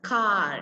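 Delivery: "Car" with the final R left silent. Shown as a demonstration. Teacher dictating a spelling word, "Car" without its R. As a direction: say "Car" as a long open "kaa", no R. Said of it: "R we won't pronounce".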